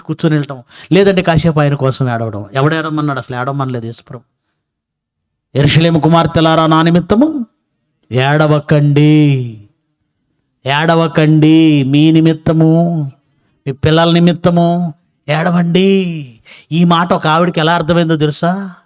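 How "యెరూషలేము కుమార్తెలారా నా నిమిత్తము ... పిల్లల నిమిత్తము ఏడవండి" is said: slow recitation with stretched endings; scripture recitation. Acted. Preacher quotes Jesus to the daughters of Jerusalem, slow recitation. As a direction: draw out each phrase of the verse.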